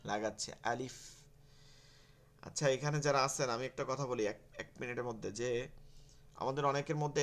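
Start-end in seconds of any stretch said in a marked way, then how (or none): 0.7-1.0 "আলিফ" with a lengthened ending; teacher's model "আলিফ", final f held; drawn-out letter name. Shown as a demonstration. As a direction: recite "আলিফ" carefully, stretching the lif. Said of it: "এক আলিফ টেনে টেনে পড়বো".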